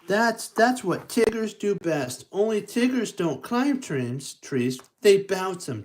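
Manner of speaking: high, lightly voiced Tigger exclaiming; a proud exclaim from a bouncy tiger. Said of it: "Tigger exclaimed".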